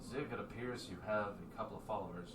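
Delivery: put-on an old dwarf just out of meditation; dwarf's voice. Old dwarf speaking to Zig, softly. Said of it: "opens his eye, and goes".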